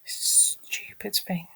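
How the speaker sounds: a real fed-up whisper; slow whispered curse. Real, not acted. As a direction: breathe it out slowly in disgust. Cursing the site.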